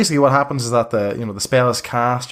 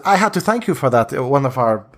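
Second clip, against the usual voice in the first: Vistani leader, wry. Acted. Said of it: "she says".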